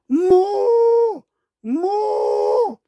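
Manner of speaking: high, long pained mooing; calf moo in pain. A narrator's reading. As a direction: bellow like a hurt calf. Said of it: "고통스러운 울음소리를 길게 토했습니다". (아파서 길게 우는 송아지 울음)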